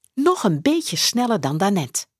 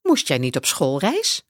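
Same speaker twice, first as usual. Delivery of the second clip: principal; 4 semitones lower than usual. Acted. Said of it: "vraagt hij".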